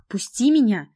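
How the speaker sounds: high, loud cry to be freed; desperate scream. Acted. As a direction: scream to break free. Heroine struggles under his knee.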